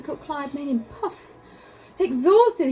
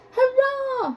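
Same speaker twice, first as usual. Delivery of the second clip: high, loud cheer; happy shout; 13 semitones higher, 4 dB louder than usual. Acted. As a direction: cheer it triumphantly. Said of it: "shouted George".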